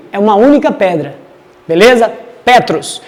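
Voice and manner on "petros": "Petros" com o e aberto, pé-tros; pronúncia original grega. Shown as a demonstration. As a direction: diga "Petros" devagar, sílaba a sílaba. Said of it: "Olha a diferença da pronúncia". (pronúncia grega de "Petros", clara e separada)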